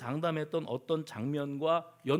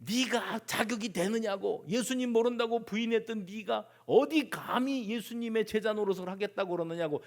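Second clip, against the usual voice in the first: raised, indignant challenge; accusing interrogation; 5 semitones higher than usual. Acted. Confirmation hearing questions Peter's fitness as a disciple, accusingly. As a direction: challenge his right to serve, in a high voice. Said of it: "청문회를 하면".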